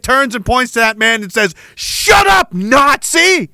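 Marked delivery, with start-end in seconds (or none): 1.7-3.5 mocking shout. The home country answering the questioning veteran, mocking shout. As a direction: sneer it back in a shrill put-on voice.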